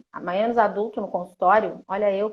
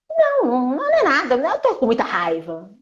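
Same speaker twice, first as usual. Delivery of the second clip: angry outburst; 3 semitones higher than usual. Shown as a demonstration. Acted angry denial.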